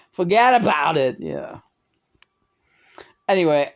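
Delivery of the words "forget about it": mock New Yorker accent from the boroughs. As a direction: toss it out in a New York accent. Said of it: "if you're a fucking New Yorker from the boroughs".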